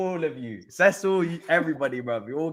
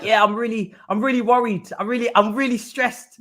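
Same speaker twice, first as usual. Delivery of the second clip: hammed-up fake worry, a touch louder; mock worried taunt; 4 semitones higher, 3 dB louder than usual. Teasing Arsenal fans on a stream, mock stressed. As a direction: pretend to fret just to tease rival fans. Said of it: "just like".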